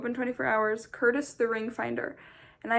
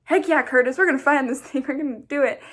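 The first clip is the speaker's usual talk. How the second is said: louder, pumped-up cheering back; match his hype, shouting along; playful rallying shout; excited cheer; 3 semitones higher, 7 dB louder than usual. Retold or imitated. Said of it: "and I was like".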